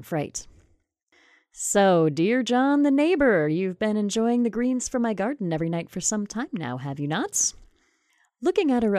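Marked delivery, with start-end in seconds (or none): 1.5-7.5 witch. Acted. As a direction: purr the accusation like a calm witch. The witch catches John.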